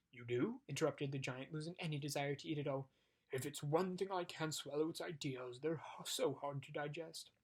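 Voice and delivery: lightly voiced giant, relieved; a hint of a relieved giant; eager giant.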